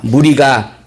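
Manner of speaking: slow, measured Bible reading; scripture reading. A narrator's reading. Pastor reads the verse to the congregation, slow formal reading. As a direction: read the verse out slowly and formally.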